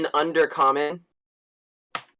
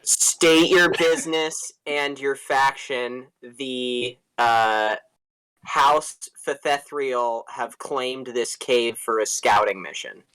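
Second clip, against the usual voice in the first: dark elf demand; 2 semitones lower, much slower than usual. Acted. Player voices dark elf.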